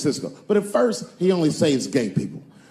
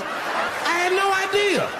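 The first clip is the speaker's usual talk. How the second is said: mock shocked; slower than usual. Repeat, laughing shout.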